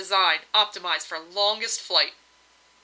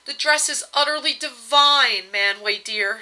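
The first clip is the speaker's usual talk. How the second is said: higher, louder gushing rave; raving; 4 semitones higher, 4 dB louder than usual. Acted. Varda telling her husband about her gown, excited rave. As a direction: gush over the gown with delight. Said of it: "she raved".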